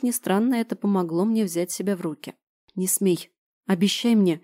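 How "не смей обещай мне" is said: ordinary delivery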